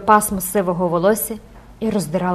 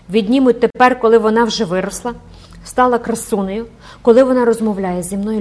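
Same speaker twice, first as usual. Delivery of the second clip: outraged protest; 3 semitones higher, 6 dB louder than usual. Acted. Mother protests losing her daughter.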